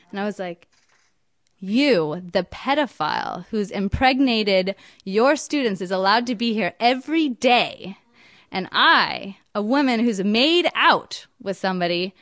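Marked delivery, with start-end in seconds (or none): 1.6-12.1 indignant retort. Retold or imitated. Angry retort to principal.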